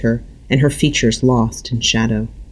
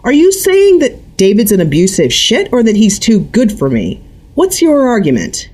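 dangerous edge; 10 semitones higher, 4 dB louder than usual. A narrator's reading. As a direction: let the danger creep in. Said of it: "her voice taking on a dangerous buzz".

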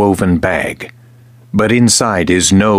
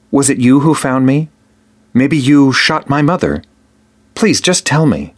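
put-on higher, pressing boy's plea; boy begging the king to tell him, higher and pressing; pleading boy; 7 semitones higher than usual. A narrator's reading. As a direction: beg for the truth, voice rising.

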